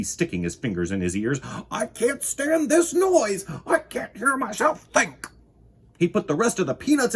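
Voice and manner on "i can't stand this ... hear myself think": high, loud, slow complaint; fed-up Mister Winky. Acted. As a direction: drag out the complaint. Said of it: "said Mister Winky".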